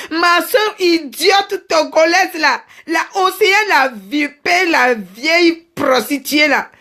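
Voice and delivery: slow, drawn-out name-calling; scornful insults. Acted. Complaining to her friend about sister Océane, scornful insults. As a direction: stretch each insult out mockingly.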